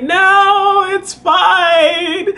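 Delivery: high, singsong reassurance; acted brushing-off of worry; retold insistence. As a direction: stretch the words out high. Retold insisting over the phone.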